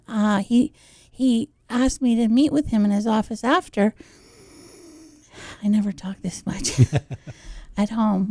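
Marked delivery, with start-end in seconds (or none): 5.6-8.3 embarrassed whispered aside. Real, not acted. Self-conscious aside.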